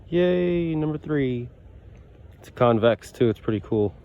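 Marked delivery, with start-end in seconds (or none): 0.1-1.5 high, happy little cheer; excited cheer. Real, not acted. Cheering own find.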